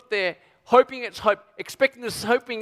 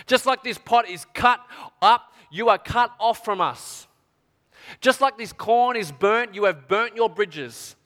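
slow solemn curse; slower than usual. Acted. The curse repeated, slowly.

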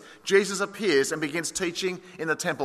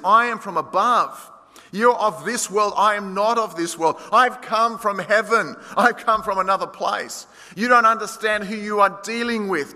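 bold declaration; 3 semitones higher, 4 dB louder than usual. Retold or imitated. Jesus declares his origin.

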